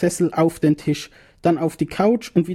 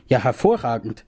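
psychiatrist whispers his delight; hushed, breathy reply; whispered; 3 semitones lower than usual. Acted. Psychiatrist to narrator, whispered. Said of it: "sagt er".

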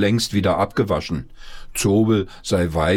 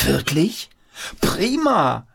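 put-on high, bright-eyed boy's voice, delighted; excited boy; 9 semitones higher, slower than usual. Boy thrilled that there's no school, excited. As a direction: shout it with childish glee.

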